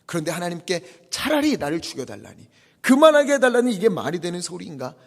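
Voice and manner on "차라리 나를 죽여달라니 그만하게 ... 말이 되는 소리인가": incredulous. Retold or imitated. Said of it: "이해가 되지 않았어요".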